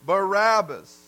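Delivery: called out loud like a mob; mock mob shout; crowd shouting a name. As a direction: shout the name back at the governor. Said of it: "And they said".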